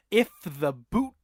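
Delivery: slow, drawn-out Buzz line with a whispered end; mimicking Buzz's dramatic delivery; Tom Hanks line read. Podcast host imitates Buzz's slow, weighty line delivery. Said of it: "my favorite line delivery".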